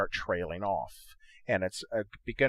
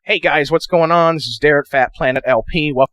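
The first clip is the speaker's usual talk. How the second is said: pitched up a little; slightly raised processed intro; 3 semitones higher, 12 dB louder than usual. Shown as a demonstration. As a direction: intro played back a bit higher. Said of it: "if you wanna raise your voice a little bit".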